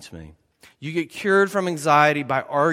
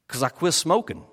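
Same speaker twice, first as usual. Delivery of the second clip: imitated swamp Cajun accent. Uncle explaining his candies to his nephew, Cajun accent. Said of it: "in his own swamp people Cajun accent".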